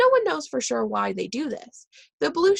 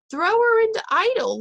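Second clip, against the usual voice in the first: high, loud shouted command; shouted order; 11 semitones higher, 6 dB louder than usual. A narrator's reading. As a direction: call the order out sharply to the driver. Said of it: "Miss Frizzle shouted".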